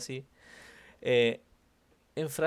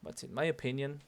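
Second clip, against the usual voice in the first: MY as the peak, opinion left open; stress on MY. Shown as a demonstration. Teacher modelling the student's phrase, stress on MY. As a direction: lean on my with a lilt. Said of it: "acentuaste el my y hiciste el cantadito".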